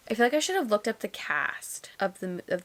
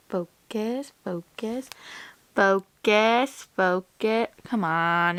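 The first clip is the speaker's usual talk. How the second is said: pleading focus; 5 dB louder, much slower than usual. Real, not acted. Pleading with the camera to focus, getting louder. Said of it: "It never wants to focus".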